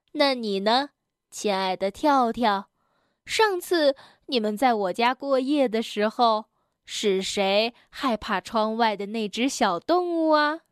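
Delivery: lightly voiced granny bear, gently teasing; kindly Granny Bear. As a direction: ask the little one as a knowing granny. (轻微模仿熊婆婆，温和地逗问)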